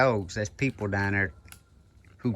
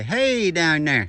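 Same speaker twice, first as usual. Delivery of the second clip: calling down from tower; 4 semitones higher, 4 dB louder, much slower than usual. Shown as a demonstration.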